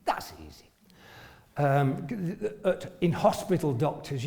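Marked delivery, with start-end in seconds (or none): 0.0-0.7 much lower and softer, trailing off to himself; muttered echo. Retold or imitated. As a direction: repeat it under your breath, half doubting. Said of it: "so I thought".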